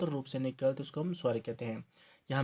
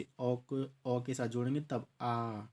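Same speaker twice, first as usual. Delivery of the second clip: slow teaching demo; slower than usual. Shown as a demonstration. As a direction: slowly join अ and अ into a long आ. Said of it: "लंबा स्वर लगता है".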